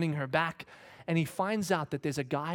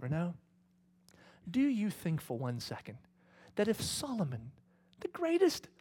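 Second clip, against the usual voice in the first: voice of God; 6 semitones higher than usual. Retold or imitated. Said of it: "God whispered to me and said".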